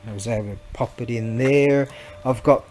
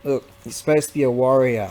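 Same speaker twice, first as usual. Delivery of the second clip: ordinary talk, nothing marked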